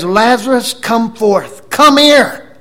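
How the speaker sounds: high shout building to a peak; urgent, full-voiced calling out; loud summons. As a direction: holler to someone inside a tomb. Re-enacts the shout to Lazarus.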